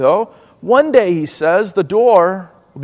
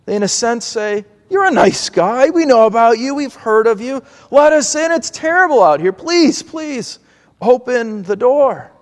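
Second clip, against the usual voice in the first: earnest plea to be let in, pitched higher; pleading; 3 semitones higher than usual. Acted. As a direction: beg the master at the locked door. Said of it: "plead to the master".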